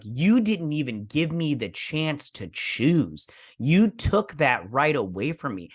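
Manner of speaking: slow, emphatic mock confrontation; retold wounded accusation. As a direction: act out an accusation with every word drawn out. Retold confrontation of wronged father.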